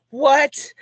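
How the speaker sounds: high, loud incredulous "what"; retold astonishment. New acquaintance reacts to hearing the same name, astonished. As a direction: exclaim it in mock shock.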